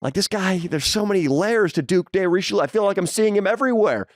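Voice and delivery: mock dazzled courtiers. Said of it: "They're like".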